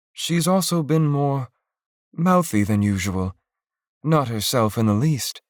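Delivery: mother voicing her doubts about her daughter; wife telling her husband the girl isn't herself; lightly voiced worried mother.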